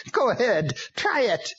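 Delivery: high, strange demon voice, daring; taunting demon. A narrator's reading. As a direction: dare them like a demon. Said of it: "Witchcraft only laughed and said".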